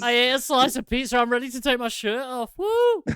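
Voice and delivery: put-on getting drunker. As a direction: whoop like a wasted partygoer. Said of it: "He's like".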